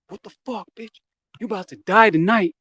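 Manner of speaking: high-pitched threat building to a shout; acted threat. Drug dealer with a gun threatening teen, acted angry threat.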